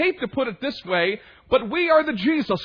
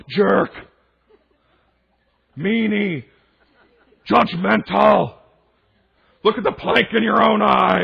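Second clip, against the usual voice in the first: mock childish outburst; 6 dB louder than usual. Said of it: "you should not go".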